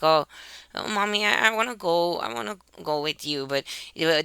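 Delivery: put-on whining child. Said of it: "not crying, but, like, kind of, you know, like, whining".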